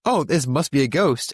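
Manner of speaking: mock fear. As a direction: imitate a startled cry, only half in earnest. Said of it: "they crowd in fear".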